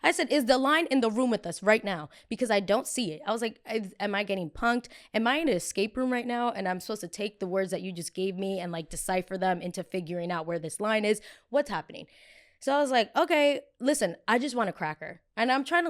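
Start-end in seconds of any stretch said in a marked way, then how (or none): 0.0-12.1 incredulous. Retold or imitated. Incredulous at invisible line. 13.2-15.2 lighthearted plea. Retold or imitated. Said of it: "make it lighthearted".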